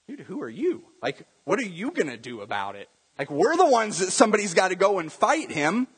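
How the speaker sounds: acted soldier's annoyance; upset soldiers. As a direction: put the upstart in his place. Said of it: "can you see the soldiers being upset".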